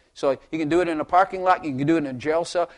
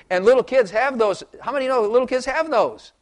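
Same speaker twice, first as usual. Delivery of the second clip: high and louder; emphatic appeal; 8 semitones higher, 5 dB louder than usual. Real, not acted. Preacher asking congregation about children, emphatic high appeal. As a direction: drive the point to the room.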